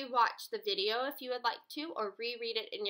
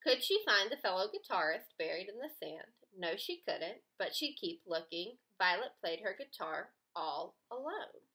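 storybook reading; 4 semitones lower than usual. Shown as a demonstration. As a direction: read it like a picture book to a class. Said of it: "It would say".

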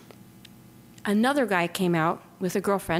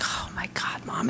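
softer unvoiced gasp of worry; hushed alarm; 6 dB quieter than usual. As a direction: breathe it out, scared for mom. Daughter reacts in alarm.

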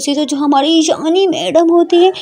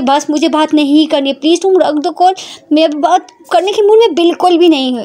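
higher-pitched, insistent refusal; annoyed Prita; 4 semitones higher than usual. Acted. Prita tells Ishani to hang up, annoyed. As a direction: shut the conversation down, mildly irritated.

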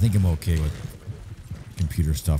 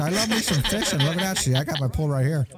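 high-pitched, chuckling character voice; eager folksy fisherman. Pretend. Norman asks the others about fishing, cheery high character voice. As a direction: play a cheery angler greeting pals.

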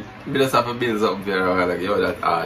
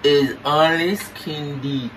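talking with mouth held open; words through a propped-open mouth; 4 semitones higher, slower than usual. Pretend. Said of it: "you say you're not pronounce good".

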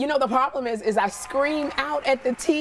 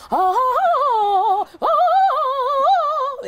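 high, loud sung oh warm-ups; vocal warm-up; 5 dB louder, much slower than usual. Shown as a demonstration. The speaker shows the vocal warm-ups she must do, loud singing. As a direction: sing out the warm-up vowels, much higher and louder. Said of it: "now I have to go".

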